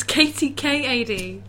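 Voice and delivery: slow, deliberate spelling of K T K A D; corrective spelling. Real, not acted. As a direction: spell out K T K A D slowly to correct him. Correcting how her name is spelt.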